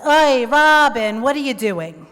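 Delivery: put-on a mother half-scolding her kid over the phone; exasperated mom.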